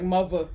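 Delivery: "Mother" said as MUH-vuh; local Maryland pronunciation. Retold or imitated. Streamer imitating locals, "Mother" as "muvva". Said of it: "I love the way y'all talk".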